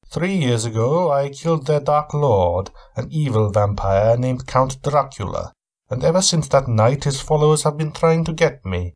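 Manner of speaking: a touch of guarded suspicion; Van Helsing. Acted. Weary traveller answering his host, lightly voiced wary reply.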